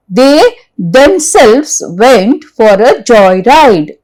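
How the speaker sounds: themselves leaned on, slow and measured; slow stress on themselves. Shown as a demonstration. Teacher reading an example slowly, stressing themselves. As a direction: draw out the line, pressing themselves. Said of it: "Now remove himself".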